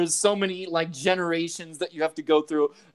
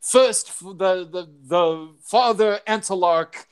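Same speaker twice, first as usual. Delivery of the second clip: mock solemn scripture reading; 2 semitones higher, slower than usual. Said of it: "he's reading".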